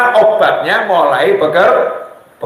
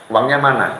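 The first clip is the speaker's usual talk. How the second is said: nagging wife; 8 semitones lower, 4 dB quieter than usual. Retold or imitated. Wife's nagging voiced in story.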